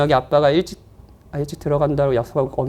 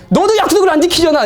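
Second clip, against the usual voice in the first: high, louder comeback in pretend anger; mock indignant retort; 11 semitones higher, 5 dB louder than usual. Dad wants to snap back at his child, mock indignant retort. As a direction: fire back in hammed-up protest.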